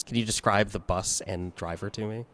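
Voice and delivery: normal talking voice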